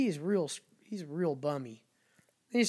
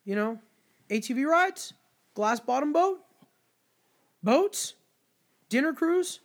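higher, louder pushy sales pitch; imitating the vendor; 8 semitones higher, 5 dB louder than usual. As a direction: mimic a vendor hustling tourists. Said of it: "And he goes".

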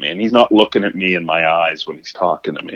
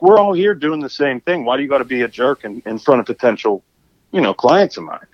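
indignant scolding; 5 semitones higher than usual. Retold or imitated. Confronting the interrupting man.

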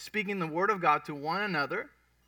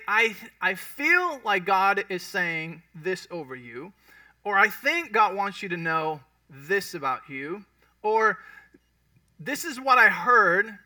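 humble; 2 semitones higher, 5 dB louder, slower than usual. Shown as a demonstration. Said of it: "in that very humble way".

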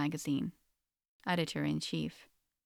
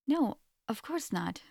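shocked; 6 semitones higher, slower than usual. A narrator's reading.

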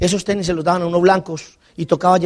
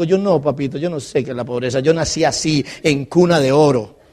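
ironic reply; 5 semitones lower than usual. Retold or imitated. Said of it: "Y digo".

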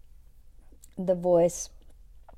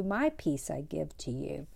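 "my peace I give to you" whispered and softer; whispered echo; 4 semitones lower, 5 dB quieter than usual. Retold or imitated. Echoing Jesus' promise of peace to listeners, whispered. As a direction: let the repeated line drop to a hushed whisper.

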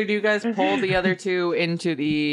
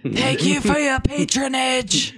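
meek shopkeeper voice; 8 semitones higher, 4 dB louder, slower than usual. Acted. Shopkeeper meekly replies.

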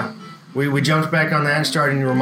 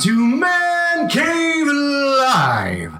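announcer voice; 9 semitones higher, much slower than usual. Acted. Show host opening.

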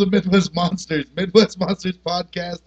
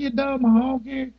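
slow, higher mock voice; quoted insult; 7 semitones higher, slower than usual. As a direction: sneer it out slowly in a put-on voice. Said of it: "He's like".

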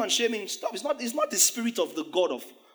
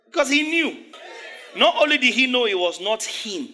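high, loud laughing exclamation; laughing shout; 5 semitones higher, 5 dB louder than usual. Real, not acted. Preacher laughing loudly to the congregation.

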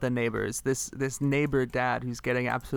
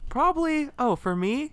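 put-on character reply; 13 semitones higher, 3 dB louder than usual. Asked in role what comes naturally.

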